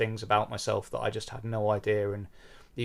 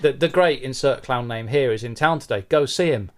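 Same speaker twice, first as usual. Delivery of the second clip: breezy doctor; 4 semitones higher, 7 dB louder than usual. Acted. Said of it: "And the doctor goes".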